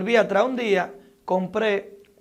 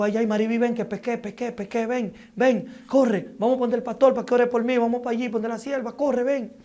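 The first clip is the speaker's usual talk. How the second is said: raised, urgent retold cry to the wife, higher throughout; panicked call for help; 4 semitones higher, 4 dB louder than usual. Retelling calling his wife for help, higher and urgent. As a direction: gasp it out as if you can't breathe, begging her to come.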